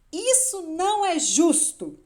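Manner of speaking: outraged shout at full voice; high, loud cry of injustice; Hen. A narrator's reading. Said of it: "gritou mais alto que pôde". (grito revoltado a plenos pulmões)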